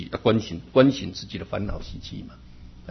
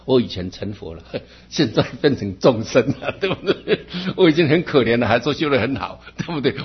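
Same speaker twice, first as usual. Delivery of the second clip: laughing; 3 semitones higher, 5 dB louder than usual. Real, not acted. Joking self-mocking answer.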